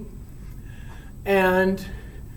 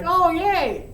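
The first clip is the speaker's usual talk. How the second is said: a light mock of a gushing girl, higher; 9 semitones higher than usual. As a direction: toss off a silly girly cheer in jest. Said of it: "I'm not that girl that's just like".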